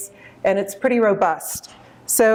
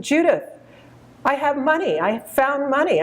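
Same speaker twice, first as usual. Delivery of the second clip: excited mother; 7 semitones higher than usual. Retold or imitated. Mother voiced in retold phone call.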